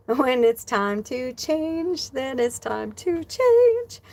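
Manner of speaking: slow, drawn-out knowing pronouncement; voice of Spirit. Retold or imitated. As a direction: speak as Spirit delivering wisdom. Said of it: "Spirit's like".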